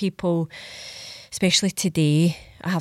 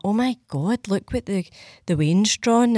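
raised, gushing mock delight; gushing excitement; 4 semitones higher than usual. Stacey gushing to her partner over the drawing. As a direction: play up the thrill over a kid's drawing. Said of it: "Stacey will run through and be like that".

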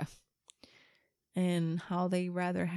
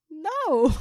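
loud no; 8 semitones higher, 9 dB louder than usual. Retold or imitated. Daughter's flat no.

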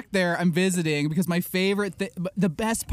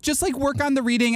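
higher, breezy teacher voice; imitating the teacher; 9 semitones higher than usual. Teacher leaving class to chat, high breezy mimicry. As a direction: toss off the instruction lightly. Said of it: "she'd be like".

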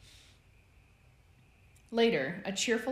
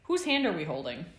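loud, eager question; eager shout; 7 dB louder than usual. A narrator's reading. Sirius materializing to join the game, shouting. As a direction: call it out to join in. Sirius yelling, joining the chase.

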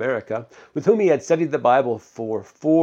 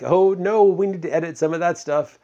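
mock panic; 5 semitones higher than usual. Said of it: "Or would you be like".

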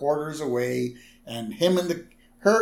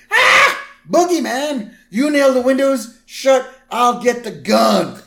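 high, loud panicked shouting; acted terror, scream then yell out orders; Homer; 11 semitones higher, 8 dB louder than usual. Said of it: "And Homer goes".

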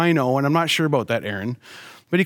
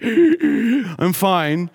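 acted winded gasp, then high strained words; breathing heavy; 6 semitones higher than usual. Winded dad reassuring wife after the fall, mock breathless. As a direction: imitate having the wind knocked out of you. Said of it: "And I'm breathing heavy".

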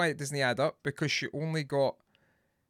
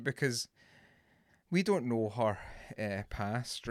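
intervention voice; 4 semitones lower, 5 dB quieter, slower than usual. Pretend. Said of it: "this is my intervention voice".

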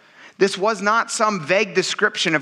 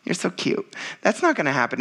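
softer, condescending cooing; patronising pat on the head; 3 semitones lower, 3 dB quieter than usual. Retold or imitated. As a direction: talk down to Jesus like a cute child. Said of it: "little pat on the head".

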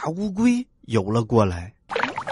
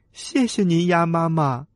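tadpoles' thanks; 3 semitones higher than usual. Acted. Tadpoles thank mother duck.

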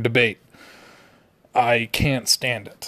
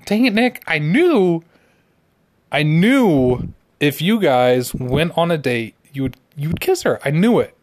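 hammed-up vindicated outburst; mock exasperation; 3 semitones higher than usual. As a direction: act exasperated, leaning hard on "knew". Acted reproach to friend over the kiss.

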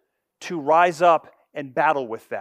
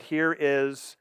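declaring God; 4 semitones lower, 5 dB quieter than usual. Acted. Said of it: "He declares his purpose and said".

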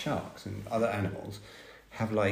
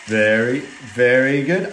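loud praise; 6 dB louder, slower than usual. Real, not acted. Praising child loudly.

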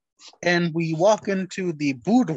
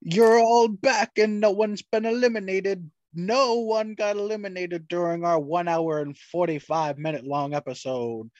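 sneering panto villain, lightly voiced; Dracula voice. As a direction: gloat like a campy vampire. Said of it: "This is your Dracula voice".

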